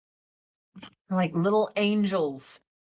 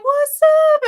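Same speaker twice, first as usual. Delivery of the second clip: much higher, louder cheery "What's up?"; delighted hello to the McDonald's worker; excited greeting; 9 dB louder than usual. Retold or imitated. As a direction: greet him like an old friend, bursting with joy. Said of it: "And I was like".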